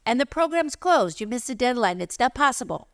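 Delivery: a hint of the brusque teacher who shuts the door; dismissive French teacher. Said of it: "And she said".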